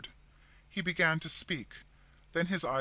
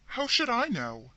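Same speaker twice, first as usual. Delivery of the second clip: sharp retort; 9 semitones higher, 6 dB louder than usual. A narrator's reading. Defensive curt sister.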